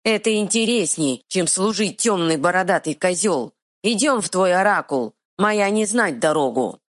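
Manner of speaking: stubborn dim-witted troll. Acted. Troll speaks.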